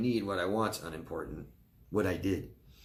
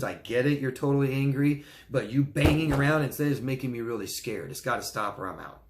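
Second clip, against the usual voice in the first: firm boundary demo; 4 semitones higher, 4 dB louder than usual. Shown as a demonstration. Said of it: "that's a soft, nice way to say it".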